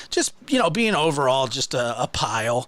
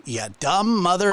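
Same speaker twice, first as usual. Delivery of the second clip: a hint of his jeer, slightly higher; lighter imitation; 4 semitones higher than usual. Quoting how the streamer says it, lightly imitated. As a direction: toss off his insult again, only lightly voiced. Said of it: "That's how he says it too".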